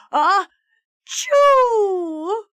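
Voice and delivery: high, loud explosive ah-choo; huge sneeze. A narrator's reading. Teacher sneezing so hard his nose flies off, explosive sneeze. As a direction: sneeze with your whole body.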